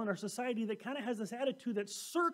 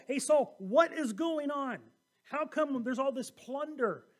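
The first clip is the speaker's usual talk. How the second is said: louder, demanding an answer; confronting call; 3 semitones higher, 4 dB louder than usual. Acted. Samuel confronting Saul over the plunder, loud and demanding. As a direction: call him out loudly.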